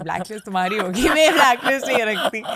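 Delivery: loud, laughing denial in a rush; laughing protest. Real, not acted. Guest teasingly denies keeping any blacklist, laughing protest. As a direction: protest quickly through rising laughter.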